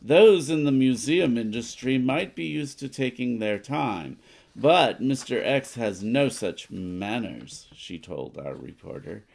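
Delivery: lightly voiced news report, read out steadily; a hint of a radio announcer; newspaper read. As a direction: read the card like a news bulletin. Reads newspaper card aloud.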